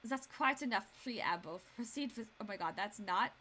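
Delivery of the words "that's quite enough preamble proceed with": wrong German accent. Shown as a demonstration. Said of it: "that's not German McGee. That's the judge".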